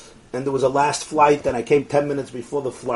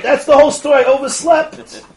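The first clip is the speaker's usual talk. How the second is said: laughing admission; 11 semitones higher, 8 dB louder than usual. Retold or imitated. His sheepish reply through laughter.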